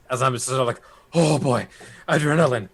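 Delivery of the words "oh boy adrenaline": woozy mumble, acted; hoarse mumbling. Wounded Weimar mumbling to himself, lightly acted hoarse voice. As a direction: start up, then sag as adrenaline fades. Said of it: "with a very hoarse voice".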